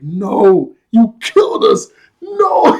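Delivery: high, loud outburst of mock despair; spazzing out. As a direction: wail it out, freaking out in a retold panic. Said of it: "He starts spazzing out".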